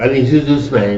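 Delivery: laughing African accent impression; imitating a friend's African accent. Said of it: "every time your African accent come on".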